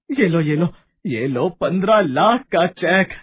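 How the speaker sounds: elated, emphatic offer; joyful shouting. Acted. Lala Ram rewarding his healer with a cheque, joyful shouting. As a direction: hand it over in delight, drawing out the last phrase. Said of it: "वो खुशी में चिल्लाने लग जाता है".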